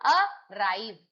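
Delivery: अराइव with a separate अ and stressed राइव; stress on second syllable. Shown as a demonstration. Teacher showing students verb stress, stress on राइव in अराइव. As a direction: step from अ onto a strong राइव. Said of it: "राइव पे आ रहा है".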